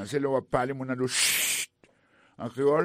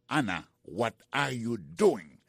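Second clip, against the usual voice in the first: slow teaching repeat; slower than usual. Shown as a demonstration. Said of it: "The lesson of today starts with".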